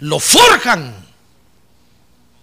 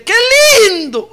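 mild mock wife; 13 semitones higher, 5 dB louder than usual. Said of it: "mi esposa dice".

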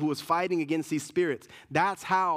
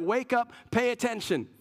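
herald's call; 4 semitones higher than usual. Retold or imitated. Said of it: "It's like".

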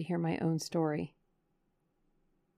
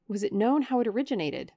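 firm, louder demand; 4 semitones higher, 5 dB louder than usual. Acted. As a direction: press him for the answer. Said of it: "I demanded".

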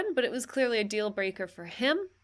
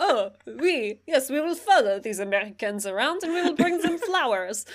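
a light mock French accent; lightly voiced French dudes in a French accent; 2 semitones higher than usual. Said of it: "the accents sounded exactly like that".

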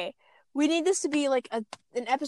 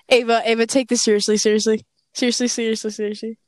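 urgent pleading; 6 dB louder than usual. Real, not acted. Urging friend to be serious.

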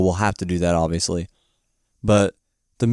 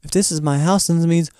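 higher voice building to a loud wail; mock dawning horror; 9 semitones higher, 5 dB louder, slower than usual. Dorothy realizing about her house, overacted dismay. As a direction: build to a hammed-up, drawn-out cry.

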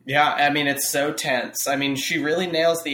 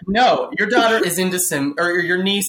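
emphatic, higher-pitched telling-off; blunt rebuke; 4 semitones higher than usual. Retold or imitated. Co-host setting the too-gentle aunt straight, blunt rebuke. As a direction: correct her forcefully.

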